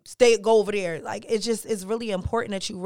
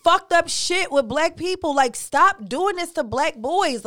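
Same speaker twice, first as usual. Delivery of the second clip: higher, louder, heated indignation; indignant outburst; 7 semitones higher, 6 dB louder than usual. Real, not acted. Reacting to his story of being told not to cry, indignant and loud. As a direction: let the outrage rise and spill over. Outraged about boys not crying.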